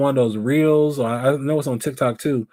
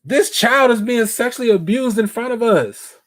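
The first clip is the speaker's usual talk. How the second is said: retold outrage; 9 semitones higher, 3 dB louder than usual. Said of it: "I'm like".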